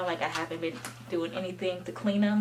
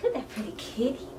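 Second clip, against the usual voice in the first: fast, laughing coo; 3 semitones higher, faster than usual. Real, not acted. Owner laughs while praising her wet cat.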